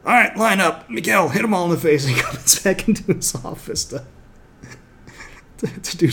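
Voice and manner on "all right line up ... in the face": commanding sensei. Retold or imitated. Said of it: "And he's just like".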